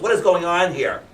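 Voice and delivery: Mister Jones can't believe it; stunned drawn-out disbelief; disbelieving man. Acted.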